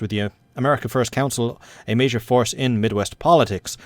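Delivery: steady newsreader delivery; news read. Acted. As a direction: read it like a wireless bulletin. Reads game news events aloud.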